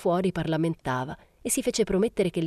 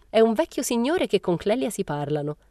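higher-pitched, cheery gossip; lightly merry lift; cheerful; 6 semitones higher than usual. A narrator's reading. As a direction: share it gaily, pitched up. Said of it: "disse Momina allegramente".

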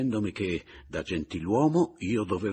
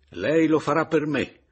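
ordine molto più forte e alto; gridato energicamente; 9 semitones higher, 9 dB louder than usual. A narrator's reading. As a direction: imponilo a gran voce. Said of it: "gli gridai energicamente". (grido energico)

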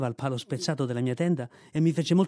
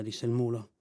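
ordinary delivery, nothing marked

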